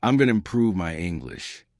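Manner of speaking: confident, connected delivery; fast and connected. Shown as a demonstration. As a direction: say it briskly as one run.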